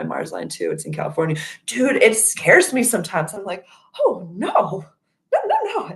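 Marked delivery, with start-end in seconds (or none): 4.0-5.9 mock panic. Scared of her Mars line.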